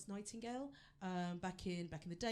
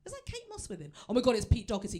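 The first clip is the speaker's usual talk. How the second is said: starstruck; 3 semitones higher, 11 dB louder than usual. Pretend. Starstruck in imagined pub.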